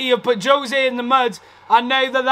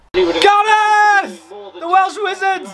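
calling out; 5 semitones higher, much slower than usual. Real, not acted. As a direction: hail him as he comes on. Bale comes on, fan calls out.

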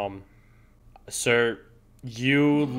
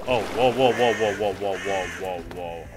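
marvel, then let it die away; whoa fading; 4 semitones lower than usual. Real, not acted. Gamer stares at strange terrain, amazed then fading. Reacting to odd world generation.

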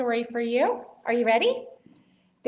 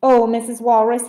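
loud, hopeful call; little bird crying out; 10 dB louder than usual. A narrator's reading. Little bird hails a walrus, crying out. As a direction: cry out lightly voiced as a small bird. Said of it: "he cried".

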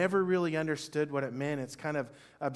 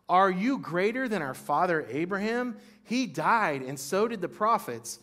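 mock-indignant challenge, a touch raised and louder; sarcastic, angry; 4 semitones higher, 5 dB louder than usual. Pastor voicing the leaders to Jesus, sarcastic and angry. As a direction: needle him with sarcastic scorn. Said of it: "in a sarcastic, kind of angry way".

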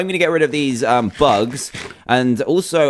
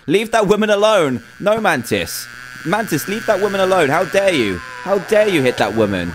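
a higher-pitched, half-joking telling-off; mock scolding; 4 semitones higher than usual. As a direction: scold the bug like a naughty pet, playfully. Scolding the mantis in game.

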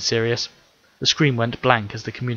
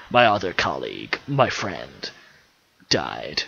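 said sadly; 7 semitones lower, slower than usual. A narrator's reading. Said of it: "Andrew said sadly".

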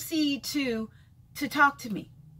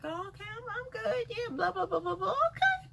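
mock dismissive brush-off; 9 semitones higher, 5 dB quieter than usual. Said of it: "I'm like".

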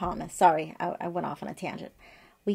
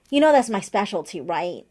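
emphatic retold remark; 8 dB louder than usual. Telling friend her specialty.

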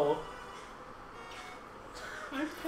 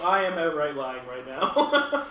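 disbelieving look voiced; 4 semitones lower, slower than usual. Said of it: "all the looks of".

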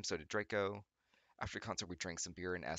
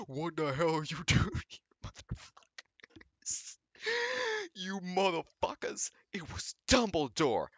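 high, loud hammed-up yell; hammed-up furious headmaster catching them; mock shout; 10 semitones higher, 6 dB louder, slower than usual. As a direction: overplay an outraged teacher. Voices Dumbledore shouting.

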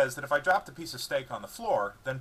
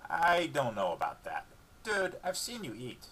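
slow, higher dog voice, cheeky; teasing dog voice; 3 semitones higher than usual. A narrator's reading. Dog teasing owner about his eating, cheeky dog voice. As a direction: tease your owner like a cheeky pup.

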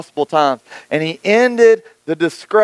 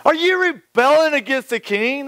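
mocking scoff; 5 semitones higher than usual. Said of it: "they asked".

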